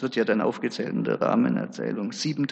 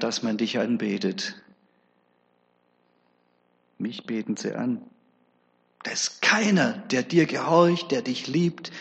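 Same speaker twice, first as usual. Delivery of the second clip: lightly voiced devil belittling God; scornful accuser, only lightly put on; devil's sneering undertone. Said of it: "hört man den Unterton".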